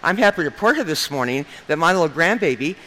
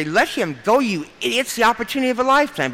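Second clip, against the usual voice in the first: mild mock shriek, pitch climbing and pace quickening; retold mock shriek; 6 semitones higher than usual. Mother imagining telling her son to let him go, mock shriek. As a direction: imitate an urgent shriek without real volume. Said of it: "I wanted to shriek at him and say".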